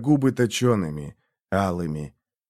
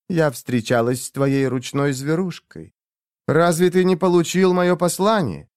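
higher, breathy seductress voice; breathy vintage purr; 5 semitones higher than usual. A narrator's reading. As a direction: purr it like an old-film siren. Ashera's seductive voice.

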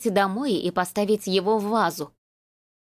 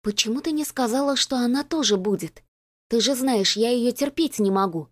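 hissed complaint; 3 semitones higher than usual. Acted. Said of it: "шикнула".

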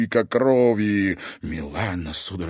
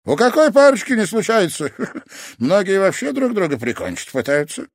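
very high, loud mocking sensei voice; gruff sensei; 12 semitones higher, 7 dB louder than usual. A narrator's reading. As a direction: brush off their fuss. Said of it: "спокойно буркнул Канто".

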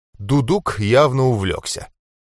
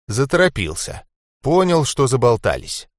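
plain reading voice

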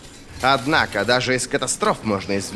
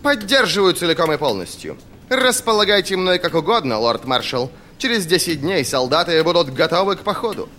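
high, eager, obliging general; good-natured; 7 semitones higher, 3 dB louder than usual. A narrator's reading. General offers his soldiers to the lord marshal, good-natured. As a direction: pledge support with genial self-assurance. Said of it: "добродушно заявил Полдер".

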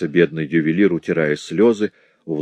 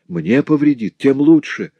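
higher, bitter retort; 8 semitones higher, 5 dB louder than usual. A narrator's reading. Madeleine bitterly retorting to her husband about the cold water. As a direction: spit back the bitterness of the sick. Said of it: "с горечью возразила Мадлен".

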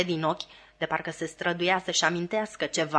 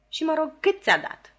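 higher, half-laughing greedy ask; laughing question; 9 semitones higher than usual. A narrator's reading. Sister laughs asking Joe how much he got, laughing. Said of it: "întrebă sora mea râzând".

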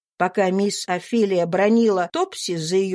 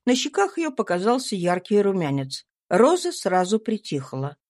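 usual speaking voice

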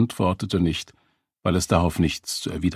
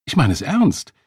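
raised, hard-edged insistence; high, hard voice; 6 semitones higher, 5 dB louder than usual. A narrator's reading. Woman standing her ground over a taxi, high and hard. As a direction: insist loudly, pitched high. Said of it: "Ihre Stimme war hoch und hart".

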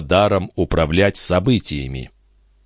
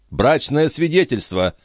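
acted outcry; 9 semitones higher than usual. A narrator's reading. The agitated princess demands the marriage certificate, crying out. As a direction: demand it urgently in a raised pitch. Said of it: "вскричала принцесса".

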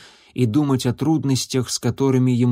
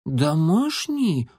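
медленно, высоко, в недоумении; растерянно переспросить котёнком; озадаченно; 5 semitones higher, much slower than usual. A narrator's reading. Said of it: "озадаченно пробормотал облачко". (озадаченный котёнок переспрашивает)

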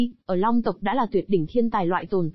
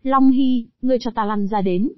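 impatient roar. Acted. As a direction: bark it out, fed up. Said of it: "không kiên nhẫn gầm rú tiếng".

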